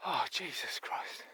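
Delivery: winded, slow gasp of exasperation; real breathless exclamation; out of breath. Real, not acted. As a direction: puff it out slowly on spent breath. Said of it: "I'm a bit out of breath".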